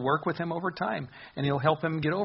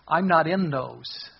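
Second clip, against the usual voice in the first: slow voice of God; 5 dB louder, slower than usual. Acted. Voicing God's reply, slow.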